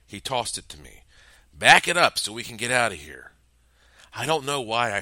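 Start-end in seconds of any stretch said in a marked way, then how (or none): 1.5-3.3 loud urgent command; urgent order. Acted. Peck orders the stunned narrator to reverse, loud and urgent. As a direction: push him to move now.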